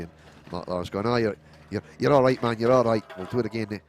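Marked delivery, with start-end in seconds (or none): 1.1-3.8 a light, very bad Scottish accent; barely-there mock Scottish accent. Commentator voicing a driver in the pits, bad Scottish accent. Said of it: "That's my sort of very bad Scottish accent".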